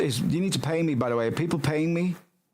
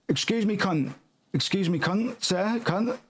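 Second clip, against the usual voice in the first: higher, sing-song fake courtesy; mock polite; 6 semitones higher than usual. Cook mock-politely hails a customer for their order.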